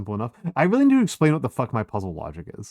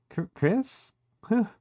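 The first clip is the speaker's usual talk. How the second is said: higher, rising Chris?; a startled girl realizes who it is; surprised recognition; 11 semitones higher, much slower than usual. Acted. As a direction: catch yourself mid-name in surprise.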